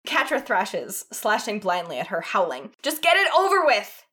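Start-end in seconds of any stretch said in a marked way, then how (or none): 2.8-4.0 high, loud anguished wail; desperate high wail. A narrator's reading. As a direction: wail it out in despair. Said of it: "she wails".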